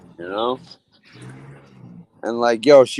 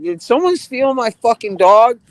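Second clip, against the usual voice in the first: higher, frantic cry; flipping out; 12 semitones higher, 4 dB louder than usual. Retold or imitated. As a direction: retell the panic as a near yell. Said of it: "I'm, like, flipping out".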